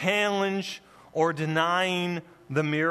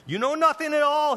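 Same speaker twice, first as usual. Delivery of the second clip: put-on higher, louder, fast scornful old priest; mock-scornful older man, a touch hammed-up; 10 semitones higher, 5 dB louder, faster than usual. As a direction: fling it at them like a contemptuous high priest. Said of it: "you can kind of imagine a male, older voice".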